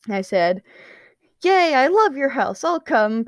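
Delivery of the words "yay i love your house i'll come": high, eager cheer; excited exclamation. A narrator's reading. Patton accepts an invitation to the house, exclaiming happily. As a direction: exclaim it with bouncy delight. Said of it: "Patton exclaimed".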